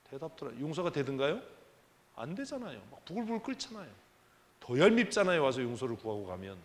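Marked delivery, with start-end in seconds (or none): 2.9-6.6 seething resentment. Acted. Preacher acting out boiling resentment.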